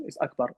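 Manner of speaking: Akbar opening with a short "uh" vowel; unwesternized first vowel in Akbar; Arabic pronunciation. Shown as a demonstration. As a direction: say Akbar as "UK-bar". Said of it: "don't be westernized".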